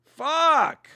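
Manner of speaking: sharp high outburst of frustration; real exasperated yelp; frustrated curse. Real, not acted. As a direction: spit out the curse, stung by the loss. Bet just lost, reacting.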